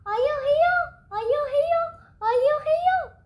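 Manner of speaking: high, loud repeated calls like an echo; ringing gym echo. Acted. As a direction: bounce it off the walls. Gym echoes the call.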